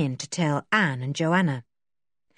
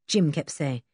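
ordinary delivery

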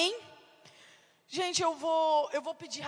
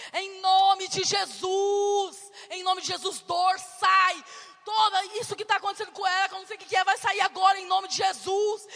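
commanding prayer; 4 dB louder than usual. Retold or imitated. Mother prays over her daughter, a loud, commanding rebuke. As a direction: command the pain to leave in Jesus' name.

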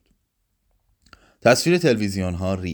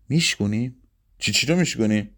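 questioning rise on میشکونیم, disbelieving; incredulous echo; faster than usual. A narrator's reading. Mansour doubting Pepsi's plan to break bottles, incredulous. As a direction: throw her word back at her, disbelieving.

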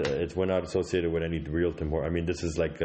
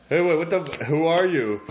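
high, loud startled cry; alarmed shock; 9 semitones higher, 6 dB louder than usual. Acted. Bob startled to find a stranger in the studio, shouting high. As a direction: jump back at a stranger in the studio.

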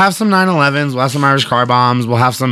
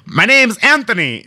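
indignant leprechaun; 8 semitones higher than usual. Retold or imitated. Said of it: "he's like".

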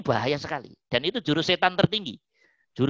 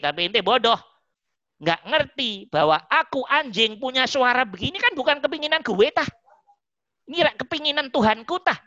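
a touch higher, cocky mocking dog scolding the scholar; cheeky talking dog; 3 semitones higher than usual. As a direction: needle the proud scholar as a smug dog. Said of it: "terus anjingnya ngomong". (anjing yang sombong mengejek ahli fikih)

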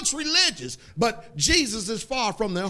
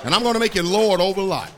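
squeaky chipmunk sound; 3 semitones higher, 7 dB louder than usual. Real, not acted. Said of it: "I sound like a chipmunk up here".

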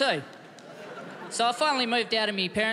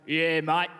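deep blokey voice; 3 semitones lower than usual. Retold or imitated. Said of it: "why doesn't my voice sound like that all the time".

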